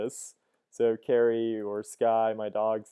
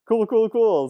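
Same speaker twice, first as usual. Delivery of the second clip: lightly voiced tech founder; a hint of a flat tech founder; Mark Zuckerberg; 10 semitones higher, 7 dB louder than usual. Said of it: "let's do Mark Zuckerberg".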